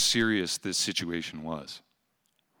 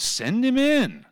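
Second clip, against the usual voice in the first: higher, louder, slow; eager call; 9 dB louder, slower than usual. Retold or imitated. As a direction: call out gladly and stretch it out. Eager reply from hospital bed.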